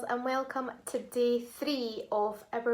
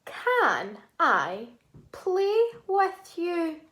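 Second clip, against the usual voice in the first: slow model sentence; 4 semitones higher, slower than usual. Shown as a demonstration. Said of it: "Our sentence is".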